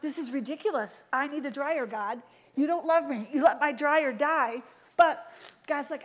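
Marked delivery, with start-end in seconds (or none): 0.0-4.6 mock anger. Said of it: "get all mad about things and go".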